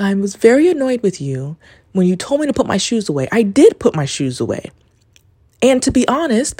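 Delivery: half-relive a teary apology to grandma; retold tearful. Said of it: "I was very tearful".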